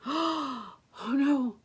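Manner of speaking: high, mock-panicked storyteller; alarmed warning. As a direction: warn the heroine anxiously. Storyteller warns the girl.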